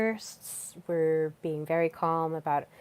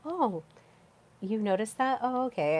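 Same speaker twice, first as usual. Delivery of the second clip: bright, higher curious "oh"; playful surprise; 5 semitones higher than usual. Pretend. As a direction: react lightly, pleasantly surprised. Listen with presence and curiosity.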